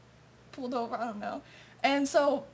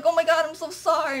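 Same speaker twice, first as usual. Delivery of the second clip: near tears; 3 semitones higher, 4 dB louder than usual. Retold or imitated. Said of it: "she's, like, gonna cry".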